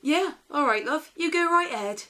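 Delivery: a hint of an indulgent farmer, chuckling along. The farmer humours Snow White, in a loud, jolly farmer voice. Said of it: "thinks animals don't talk".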